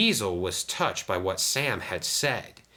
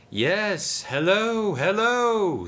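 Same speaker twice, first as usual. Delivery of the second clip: high amused greeting, no real laugh; snickering; 13 semitones higher, 5 dB louder, much slower than usual. A narrator's reading. Diesel greets disguised Dart, snickering. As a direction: greet with mock delight, pitched up. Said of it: "snickered Diesel".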